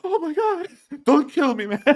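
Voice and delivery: high, squealing mock panic; panicked Russian. Russian soldier startled by the bush begs for his life, mock panicked. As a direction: shriek like you've been ambushed by a shrub. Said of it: "And then the guy's gonna go".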